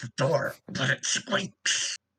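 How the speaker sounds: hushed, very slow whisper. Answering a bugbear in character about the way out: whispering. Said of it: "I'm gonna whisper".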